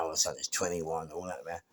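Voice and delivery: usual speaking voice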